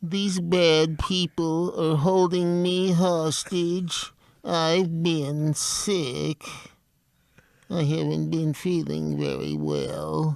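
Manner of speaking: high, swooping, droopy hangdog cartoon hound voice, pleading. Asked to give a hostage-video line, doing a Droopy Dog voice. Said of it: "the best hostage video voice I've found is Droopy Dog".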